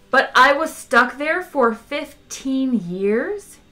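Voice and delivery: slow, high-pitched indignation; indignant protest. A narrator's reading. Ford protests being stuck there, indignant. Ford's outraged protest to Zaphod.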